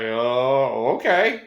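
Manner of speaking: drawn-out "oh", pitch jumping up on "okay"; retold doubtful compliance. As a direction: go along with it, unconvinced. Player doubtfully accepts coach's order.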